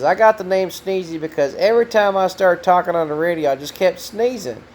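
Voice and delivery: a hint of Ray's voice; imitating Ray. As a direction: play old Ray telling how he got his name, lightly. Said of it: "he says".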